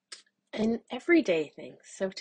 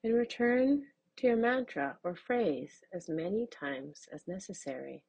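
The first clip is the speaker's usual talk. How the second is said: calm, measured meditation guide; unhurried instructions for a mindful exercise; guided mindfulness. Acted. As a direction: guide listeners gently, with long pauses.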